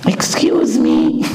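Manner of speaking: slow, low, drawn-out excuse me; singer's low excuse me. Retold or imitated. Singer to the rabbi, slow and low. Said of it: "הוא בא אליו".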